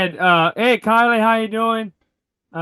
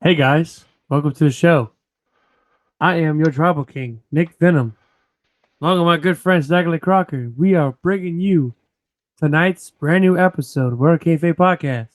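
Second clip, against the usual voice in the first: a light, lower show-host welcome; Joe Tressatore impression; 3 semitones lower than usual. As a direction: lightly put on the host's big welcome. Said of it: "I am doing my best Joe Tressatore impression".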